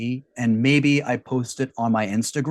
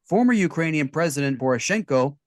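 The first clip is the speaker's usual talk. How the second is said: news read. Acted.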